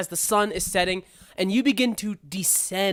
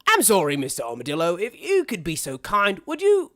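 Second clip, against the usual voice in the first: polite frog chauffeur; 2 semitones higher, 3 dB louder than usual. Acted. Chauffeur asks Armand for help.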